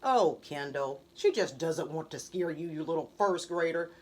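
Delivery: smug vow. A narrator's reading. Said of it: "McKinley vowed".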